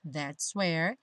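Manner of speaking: "that's where" run together like "that-swear"; linked as "swear". Shown as a demonstration. Teacher repeating the junction, "that's where" as "that-swear". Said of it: "Junto o S do that's".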